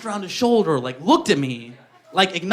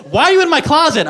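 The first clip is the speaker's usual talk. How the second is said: shocked ex; 8 semitones higher, 4 dB louder than usual. Retold or imitated. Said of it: "she's like".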